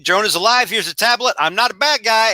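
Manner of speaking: lightly voiced cocky Spider-Man; cheery Spider-Man. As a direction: toss it off lightly as a cocky hero. Voicing Spider-Man's quick exit.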